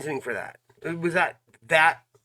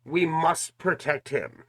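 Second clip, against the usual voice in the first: mocking repetition. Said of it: "She kept saying that over and over again".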